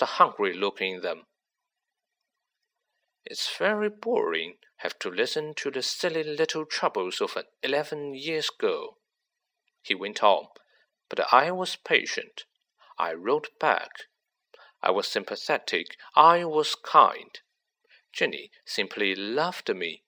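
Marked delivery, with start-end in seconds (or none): 3.2-9.0 a lightly voiced young Riddle, quietly mocking; Riddle, cold and smug. Riddle's voice in the story. 11.1-20.0 Riddle, cold and smug. Acted. Riddle's voice in the story.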